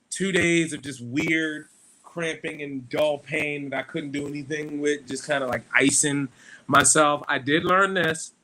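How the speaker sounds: crackly mic distortion; crackling mic. Real, not acted. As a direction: voice through a crackling microphone. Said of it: "My mic is crackling".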